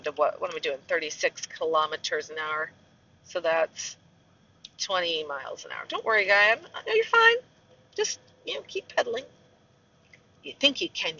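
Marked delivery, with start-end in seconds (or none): 5.9-9.2 soft, high-pitched coaxing; reassuring. Pretend. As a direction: gently egg on a cyclist who can't hear. Reassures cyclist from her car.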